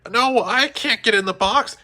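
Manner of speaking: high, loud panicked protest. A narrator's reading. Jessie panicking at being boxed up. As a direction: refuse in a rising panic. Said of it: "Jessie panicked".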